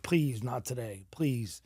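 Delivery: pleading through tears. Retold or imitated. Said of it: "And I start crying".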